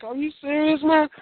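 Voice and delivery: retelling his own shocked reaction to the promo; incredulous. Retold or imitated. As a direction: pitch it way up in disbelief. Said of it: "I was like".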